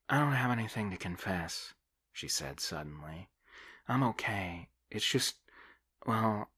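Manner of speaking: put-on a young woman in confession, unsure how to go on; hesitant young woman. Debbie voiced in the story.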